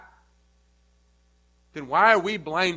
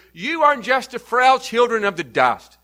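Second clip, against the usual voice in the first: stern rebuke; 5 dB louder than usual. Acted. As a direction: scold them as mere dust. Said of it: "Paul's given this address to remind those".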